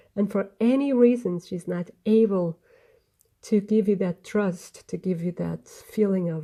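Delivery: emotional, choked-up voice breaking. Speaker getting emotional partway through an explanation, voice choking up. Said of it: "sorry, I'm getting emotional".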